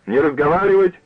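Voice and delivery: put-on shrill drunk order. A narrator's reading. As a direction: snap the order at the room. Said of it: "кричала она".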